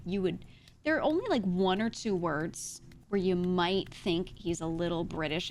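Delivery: usual speaking voice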